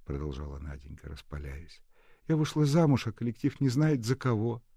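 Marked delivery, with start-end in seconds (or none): 2.3-4.6 lifted, animated character voice; young woman's voice. A narrator's reading. Young bride talking to old nurse, animated.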